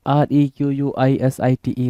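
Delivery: letters spelled out slowly; slow spelling. Shown as a demonstration. Teacher stressing that spelling matters, spelling slowly. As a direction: spell each letter clearly for students. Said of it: "spelling बड़ा matter करता है भाई".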